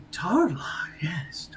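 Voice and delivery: hushed elf muttering, falling away; muttering to himself. Acted. Elf recalls the name Tarlock, muttering to himself. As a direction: mumble it as a private thought. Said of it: "starts kinda muttering to himself".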